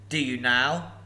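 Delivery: lightly voiced flattered dragon. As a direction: let the flattery land. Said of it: "somewhat flattered".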